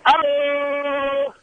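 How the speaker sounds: hammed-up Norwegian greeting; Norwegian accent. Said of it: "Can we hear a little of Johan".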